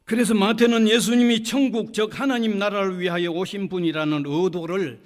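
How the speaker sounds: loud pulpit declaration; preacher proclaiming to the room; emphatic preaching. Real, not acted. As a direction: launch in forcefully, then ease slightly.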